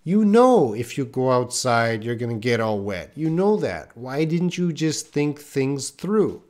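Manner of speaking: put-on like a parent chiding a soaked child; scolding. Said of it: "So I might say".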